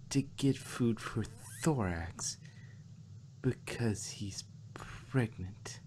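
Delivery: trailing off into a slow whisper; fading disbelief. A narrator's reading. Twilight repeating Spike's news, fading into a whisper. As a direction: let the disbelief drain to a whisper.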